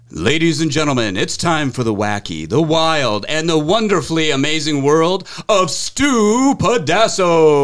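slow, drawn-out showman intro; radio announcer voice. Pretend. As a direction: build it up like a big-show host. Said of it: "my radio announcer voice".

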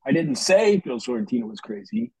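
"say" falls heavily; stress on say. Shown as a demonstration. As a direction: lean on the word "say". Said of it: "Each sentence meant something different".

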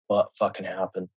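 quiet stunned inner voice; inner thought. Retold or imitated. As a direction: mutter it to yourself in shock. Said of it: "I'm thinking to myself".

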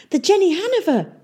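high, breathless surprised cry; gasped. Acted. Boy recognising his friend's airship, surprised gasp. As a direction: gasp out the ship's name. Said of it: "gasped Tom".

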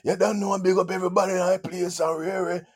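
high, loud dancehall MC chat; big up the crowd like a raga youth; Jamaican toasting. Retold or imitated. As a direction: Jamaican patois stage chat. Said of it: "I'm like".

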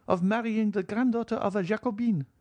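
put-on high, imperious old lady's voice; old marchioness. Old marchioness questioning her son-in-law, high and stiff. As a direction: voice the proud old grandmother, pitched high.

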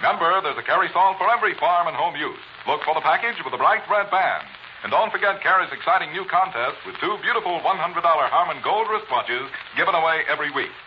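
brisk vintage sponsor pitch; old radio announcer. Acted. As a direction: sell it like a 1940s announcer. Closing sponsor read.

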